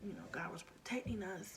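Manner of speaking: soft hushed reassurance; daughter consoling, whispered. Retold or imitated. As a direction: comfort her gently. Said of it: "she was like".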